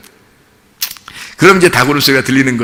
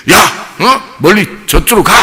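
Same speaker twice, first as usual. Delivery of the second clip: mock bossy call, pitched up; imitating an officious disciple chasing kids away; bossy shooing; 5 semitones higher than usual. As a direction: shoo them off self-importantly. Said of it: "막 나댈 때는 어땠어요?".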